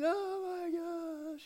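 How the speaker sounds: high mock gasp of amazement; imitated shock of a family seeing their home; amazed family. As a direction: gasp it like seeing the new house. Family sees new house.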